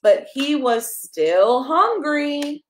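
slow, drawn-out but he was still hungry; slow storybook refrain. Acted. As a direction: stretch out the refrain for the toddler. Reading a picture book to a child.

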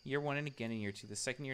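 usual speaking voice

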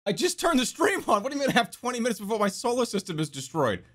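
mock alarm. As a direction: protest as if caught off guard by doom. Acts out alarmed reply to doom warning.

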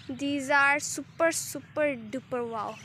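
drawn-out delighted gush; gushing wow. Real, not acted. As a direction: drag out every word in awe of the flowers. Gushing over the flowers.

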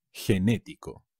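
"genético" stressed on the second syllable, NÉ. Shown as a demonstration. Teacher modelling the accent for learners, stress on NÉ in "genético". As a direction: lean on the NÉ of "genético". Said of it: "con un acento".

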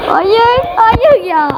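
high, pained cry of no; anguished no. Real, not acted. Gamer watching the match slip away, pained cry. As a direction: wail at the screen in disbelief.

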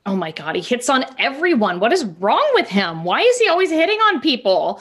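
rising, eager gossip; gossip thrill. Acted. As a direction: lean in and dish the dirt. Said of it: "perks up and is like".

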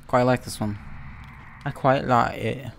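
put-on British accent, drawn out at the end. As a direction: slip briefly into a playful British accent. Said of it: "I apologize for that British accent".

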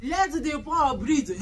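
slow, laughing imitation of Akpabio's line; mocking Akpabio. Vlogger mocks the Senate President to viewers, slow and laughing. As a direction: drag it out slowly, half laughing, mocking him. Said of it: "You do not see Akpabio".

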